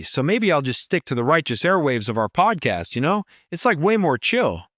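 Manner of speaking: surfer dude with rolling up-and-down lilt; easygoing Californian surfer voice; California surfer dude. Acted. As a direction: riff like a chilled-out surfer bro. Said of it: "let's maybe drop that accent".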